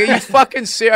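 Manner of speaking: high, mock-incredulous outburst; exasperated sitcom husband. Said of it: "felt like I was in a sitcom".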